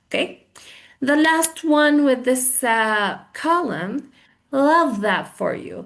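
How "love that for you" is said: mildly sarcastic congratulation; understated mock delight. Shown as a demonstration. Teacher showing the phrase for sarcasm, mildly sarcastic. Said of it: "بس عم بتهكم".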